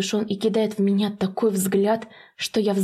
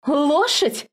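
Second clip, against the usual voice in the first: a daughter hearing herself called a horse; shocked gasp; 9 semitones higher, much slower than usual. Acted. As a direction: gasp the words out high in shock. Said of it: "охает Зела".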